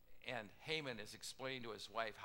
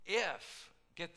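sudden loud plea; 6 semitones higher, 9 dB louder than usual. Acted. Queen pleading with the king, a loud high burst.

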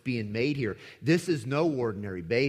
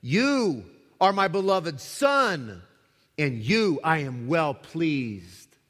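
slow, solemn, louder proclamation; voice from heaven; 4 dB louder, slower than usual. Acted. God speaking from heaven to Jesus, slow and solemn. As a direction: speak slowly as the Father blessing his Son. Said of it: "a voice came out of heaven".

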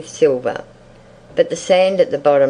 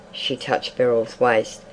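ordinary delivery, nothing marked

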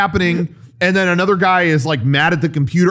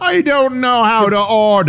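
put-on confused old woman; 7 semitones higher, 3 dB louder than usual.

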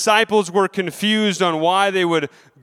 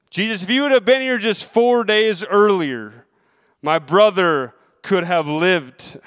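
pleading sister. Retold or imitated. Preacher voicing Mary's grief to Jesus, a mild pleading sister. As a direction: plead as the grieving sister would. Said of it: "Both of the sisters made the claim".

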